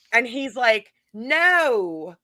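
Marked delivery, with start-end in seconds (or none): 1.1-2.1 drawn-out Southern denial; deep Southern accent. Retold or imitated. Imitating David denying it, deep Southern accent. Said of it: "in that deep Southern accent".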